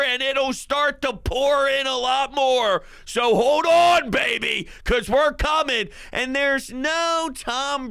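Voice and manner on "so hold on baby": rising, louder rallying call; rally the fans with a loud cry; loud, fired-up fan; hyped shout. Real, not acted. Hyped sports fan rallying listeners.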